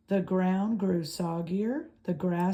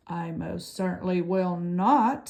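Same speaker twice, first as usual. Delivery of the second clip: squawking refusal; 5 dB louder than usual. Acted. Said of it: "squawked the goose".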